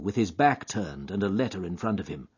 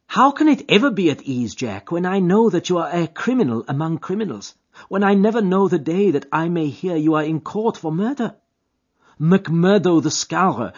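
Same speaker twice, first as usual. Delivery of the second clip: put-on high, louder anguished girl's voice; frightened young woman; 8 semitones higher, 8 dB louder than usual. A narrator's reading. Etty fearing Jack is a criminal, high anguished voice. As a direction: plead with him, fearful for him.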